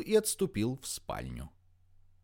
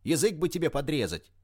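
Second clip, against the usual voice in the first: roaring; 6 semitones higher than usual. A narrator's reading. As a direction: bellow the threat. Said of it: "взревел Вершинин".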